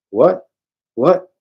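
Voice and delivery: high, loud panicked yelps. Acted. Sudden high terror. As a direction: bound man hears threat to his heart, panicked high cries. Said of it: "Dennis mumbles".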